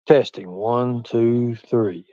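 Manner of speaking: soft, measured testing voice; mic-test practice voice. Shown as a demonstration. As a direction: count it off quietly, dropping at the end. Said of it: "I'll go into stages, like, volumes".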